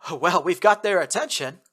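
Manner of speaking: loud over gunfire. Acted. Aaron shouting to the team over gunfire. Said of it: "Aaron raised his voice above a new round of gunfire".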